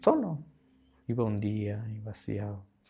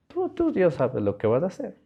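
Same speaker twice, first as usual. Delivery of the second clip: fervent surrender; 9 semitones higher, 5 dB louder than usual. Retold or imitated. Retells surrendering prayer to God.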